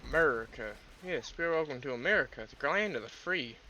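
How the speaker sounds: badly faked American accent; lightly hammed-up American patriot accent; attempted American accent. Shown as a demonstration. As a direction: welcome them in a put-on American accent. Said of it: "I can't do an American accent".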